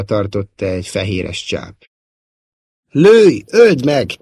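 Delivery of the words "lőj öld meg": high, loud panicked cries; screaming. A narrator's reading. Luke begs Szóló to shoot the creature, screaming. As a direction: shout desperate orders at a raised pitch. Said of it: "sikoltotta Luke".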